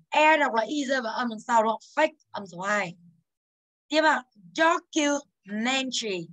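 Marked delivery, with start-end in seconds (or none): 4.6-6.3 Documentary said slowly, stress on MEN; slow stress demo. Shown as a demonstration. Teacher slowly models for students the stress in Documentary. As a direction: stretch Documentary, hitting MEN. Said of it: "Và từ man đúng không ạ?".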